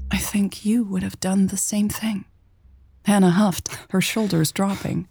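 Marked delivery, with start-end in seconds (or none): 0.1-2.3 hushed, softer voice; soft near-whisper, slightly raised in pitch. A narrator's reading. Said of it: "she whispered".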